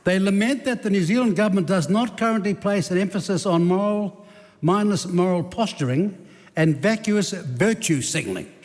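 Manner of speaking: slow it right down, as if for a listener who is hard of hearing; said very slowly. Shown as a demonstration. Repeating the point slowly to the member opposite, deliberate and drawn out. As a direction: spell it out slowly and deliberately, word by word. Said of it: "I'll say it very slowly".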